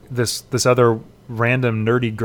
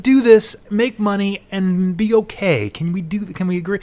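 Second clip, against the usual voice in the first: subtle villain; 6 semitones higher than usual. Retold or imitated. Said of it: "It was much more subtle".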